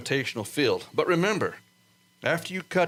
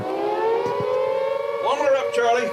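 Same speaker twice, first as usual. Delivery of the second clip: loud, higher call across the launch pad; shouted order; 3 dB louder, much slower than usual. Acted. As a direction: bark it over the engines.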